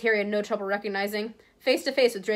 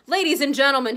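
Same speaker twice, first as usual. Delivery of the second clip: louder, calling the room to order; loudly; 4 semitones higher, 6 dB louder than usual. Acted. Author hushes the bookshop crowd with a loud call. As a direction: raise the voice over the crowd. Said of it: "loudly waving for quiet".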